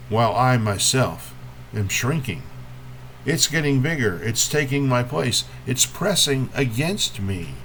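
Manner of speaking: measured poem reading with long pauses between images; poetry reading. Acted. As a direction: lift each opening phrase, let the line settle. Reads a poem to an audience.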